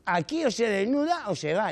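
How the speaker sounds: loud, high bark of the naked man; mock outraged order; stern order. Nudist man ordering the newcomer, loud and stern.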